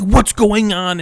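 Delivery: put-on lightly Brazilian-accented outburst. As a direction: imitate a frantic husband with a light Brazilian accent. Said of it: "in his cute little Brazilian accent".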